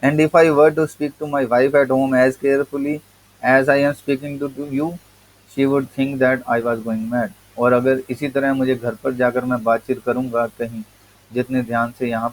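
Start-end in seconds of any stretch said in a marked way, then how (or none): 0.0-7.3 reading the essay slowly, word by word; slow text reading. Acted. Teacher reading the English essay to students, slow and deliberate. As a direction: read each word out to the class.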